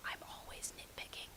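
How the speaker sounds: breathy whisper, mock confession; whispered aside. Real, not acted. Reader confessing a bad habit in a whisper.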